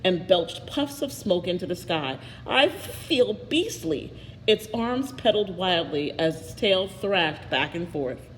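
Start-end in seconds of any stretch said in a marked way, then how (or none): 2.5-4.1 high, slow, drawn-out beastly moan; lightly voiced dragon in distress. A narrator's reading. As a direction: stretch each word like a miserable dragon. Dragon father speaks.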